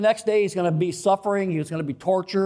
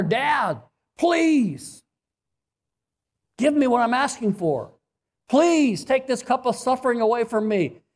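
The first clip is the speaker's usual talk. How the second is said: higher, urgent pleading please; passionate prayer; 3 semitones higher than usual. Retold or imitated. Jesus begging his Father, pleading passionately. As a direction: beg like a child to his dad. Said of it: "this is a passionate prayer".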